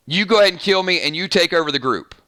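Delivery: lightly voiced character accent of a dying group leader; Alpha accent. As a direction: put on a hint of the villain's accent as you urge your own killing. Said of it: "what's wrong with my Alpha accent".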